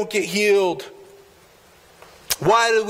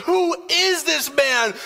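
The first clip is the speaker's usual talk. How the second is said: awed disciples; 6 semitones higher, slower than usual. Retold or imitated.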